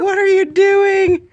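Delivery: high slow squeaky cat voice. Retold or imitated. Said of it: "She's like".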